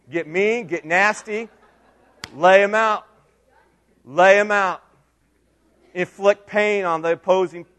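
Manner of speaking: mock coach's rallying call; retold pep talk. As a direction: fire up a young player with punched commands. Pep talk to football son.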